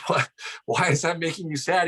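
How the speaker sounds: a hint of a puzzled teacher. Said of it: "So she goes".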